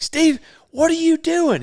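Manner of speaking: high, drawn-out mock question; imitated dismayed lady. Lady cooking lunch catches naked resident, high imitated dismay. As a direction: call him out in a high, slow voice.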